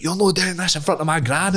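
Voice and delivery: high, mock whiny plea; whiny protest. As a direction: whine it like a scared kid. Retold boy hiding behind gran.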